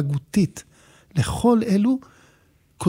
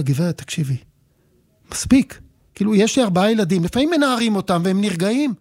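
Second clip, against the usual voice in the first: mildly exasperated retelling; 2 semitones higher than usual. Retold or imitated. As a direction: play at losing patience with a stranger. Acts out losing patience with mother. (חוסר סבלנות קל, בציטוט)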